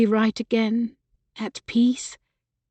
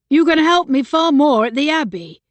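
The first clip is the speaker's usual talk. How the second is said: firm and louder; insisting; 6 semitones higher, 6 dB louder than usual. A narrator's reading. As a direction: press the point home. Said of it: "he insisted".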